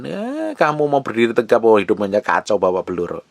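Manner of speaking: mock an accusation as the devil would; accusing devil. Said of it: "Setan akan tuduh dan tepuk tangan". (setan menuduh, sedikit mengejek)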